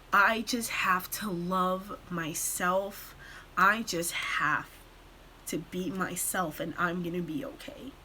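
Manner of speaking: low, soft, gentle quote; tender self-acceptance. Retold or imitated. Tearfully voices Steven's self-acceptance.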